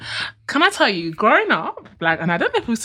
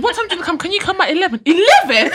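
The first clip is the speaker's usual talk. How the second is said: imitating dad; 11 semitones higher, 4 dB louder than usual. Dad asked about pickup time.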